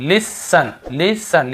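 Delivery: listen said slowly as lisen with no T; slow, careful listen, T silent; silent T demo. Shown as a demonstration. Scene: teacher demonstrating silent T for students, slow demo. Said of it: "टी नहीं पढ़ रहे".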